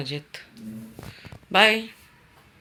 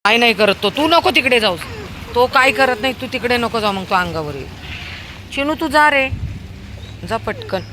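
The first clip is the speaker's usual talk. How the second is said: loud warning; 9 semitones higher, 9 dB louder than usual. Real, not acted. Warning child about dog.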